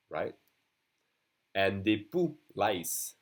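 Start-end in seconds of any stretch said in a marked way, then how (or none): 1.8-2.4 "des poux" ending on the vowel; French "des poux", final X left silent. Shown as a demonstration. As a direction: say "poux" with no X sound. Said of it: "Again, we don't say the X".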